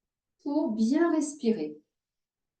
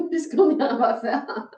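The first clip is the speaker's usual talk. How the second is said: real laughter breaking into the words; amused laughing talk; 3 semitones higher, 5 dB louder than usual. Real, not acted. Teacher joking with yoga students, amused and laughing. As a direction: say it through a laugh.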